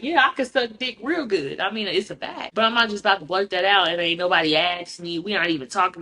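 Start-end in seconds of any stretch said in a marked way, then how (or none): 0.0-1.6 higher pretend overshare; playful put-on brag; mock blurting. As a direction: act out what she would never say. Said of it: "about to just blurt out".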